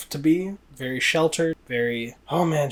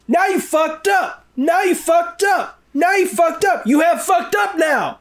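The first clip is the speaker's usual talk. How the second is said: hammed-up furious yell; 5 dB louder than usual. Lincoln once he sees the heckler, shouting a threat. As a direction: roar it as a threat. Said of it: "he goes".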